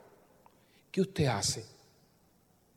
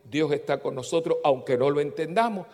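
suave consuelo; 3 semitones lower, 3 dB quieter than usual. Retold or imitated.

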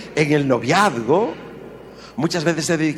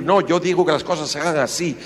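bossy husband; 5 semitones higher, faster than usual. Retold or imitated. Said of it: "el egoísmo".

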